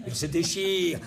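Frédéric Mitterrand. Retold or imitated. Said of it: "On peut l'imaginer, euh, par, euh, Frédéric Mitterrand".

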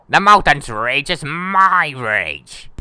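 lightly voiced menacing guardian, slow; angry guardian. Player reading the mountain guardian's threat, lightly acted slow menace. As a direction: drag it out with a touch of menace.

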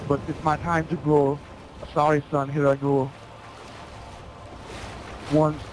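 lightly voiced Terminator saying goodbye; mock-solemn dying robot father; Terminator farewell. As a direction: Terminator bids John Connor farewell, understated. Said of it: "Arnold voice".

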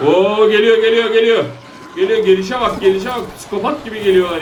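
high-pitched, excited alarm; alarmed warning. Real, not acted. Alarmed as zombies rush in. (telaşlı, tiz sesle uyarı)

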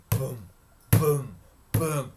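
short, thudding booms; booming footsteps. A narrator's reading. Storyteller sounding the giant's pursuit, booming. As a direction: thud them out like heavy steps.

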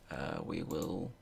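talking round a sweet in the mouth; words around a candy in the cheek; mouth full. Real, not acted. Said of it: "sweet in my mouth".

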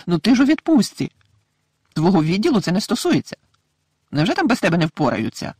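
high, worried motherly voice; a fretting mother, breathless with worry; anxious mother. A narrator's reading. Mrs Weasley runs to her husband, high and anxious.

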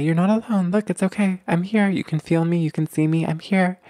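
lightly voiced mom soothing her little one; reassuring mommy. Mother holding and rocking her baby, reassuring.

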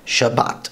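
SHABBAT ending in a hard t; careful modern Hebrew Shabbat; modern Hebrew pronunciation. Shown as a demonstration. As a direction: say Shabbat with t, not th. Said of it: "instead of the modern Hebrew".

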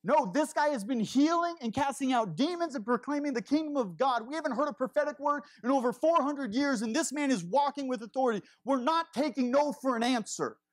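a bold friend insisting they won't take no; determined friend. Retold or imitated. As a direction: refuse to give up, push hard. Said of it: "one of these guys was like".

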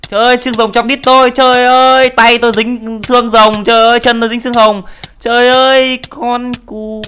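high, loud hammed-up wailing; shrill comic cries of cactus pain; mock cactus wail. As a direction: yelp like the cactus is stabbing you. Character stuck on cactus wails.

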